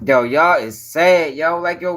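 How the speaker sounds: slow, low disgusted remark; exasperated at chat. Real, not acted. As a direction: drag it out in disbelief.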